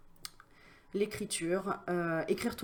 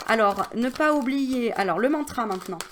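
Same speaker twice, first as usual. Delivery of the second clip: emphatic announcement; 3 semitones higher, 8 dB louder than usual. Real, not acted. Announcing the mantra.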